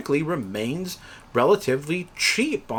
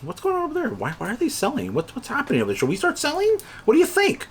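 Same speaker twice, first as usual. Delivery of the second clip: high, anxious questions, pitched way up; panicky investor; 10 semitones higher, faster than usual. Retold or imitated. Investors asking each other why everyone sells, high and panicky. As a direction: sound like a nervous trader who sees everyone selling. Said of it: "everybody's like".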